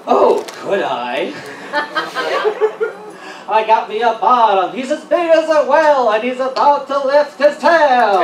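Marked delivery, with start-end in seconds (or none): 3.5-8.2 mock B-52s singer. Mock B-52s song parody.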